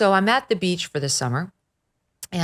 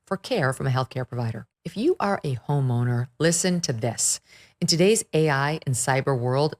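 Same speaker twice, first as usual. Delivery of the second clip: polished, measured podcast ad read; sponsor ad read; 3 dB quieter than usual. Real, not acted. Host pitches listeners sponsor products, ad read. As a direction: read it out as a scripted sponsor spot.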